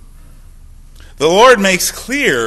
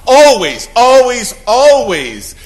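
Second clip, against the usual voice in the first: insistent repetition; 6 semitones higher, 10 dB louder, slower than usual. Real, not acted. Hammering a warning home.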